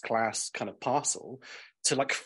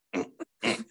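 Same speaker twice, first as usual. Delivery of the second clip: short repeated effortful grunts; imitated shoving noises. Imitating postman forcing a record through letterbox, straining. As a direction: mimic someone straining to ram something through. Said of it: "a couple of minutes of him, like".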